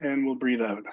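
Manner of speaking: guided deep breathing. Shown as a demonstration. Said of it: "take three deep breaths".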